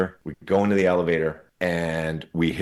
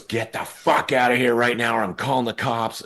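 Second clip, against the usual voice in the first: higher, hammed-up threat to call the cops; mock furious threat; 5 semitones higher than usual. Clerk Jennifer freaking out at the boys, mock furious. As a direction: imitate her freaking out at them. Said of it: "she was just freaking out".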